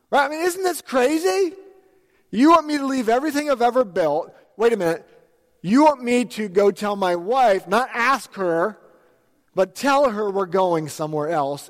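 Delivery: can't believe what he's hearing; incredulous outburst. Acted. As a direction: raise the voice in shock. Preacher acting out Abraham's disbelief.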